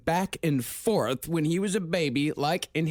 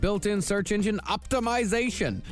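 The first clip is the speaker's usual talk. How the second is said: bright podcast ad read over music. Acted. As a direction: sell it like a sponsor spot. Reads a sponsor ad.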